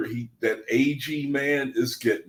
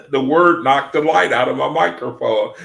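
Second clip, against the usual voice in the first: louder, amazed telling; excited; 6 dB louder than usual. Real, not acted. Streamer telling viewers the word killed his mic, excited. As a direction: marvel out loud at it.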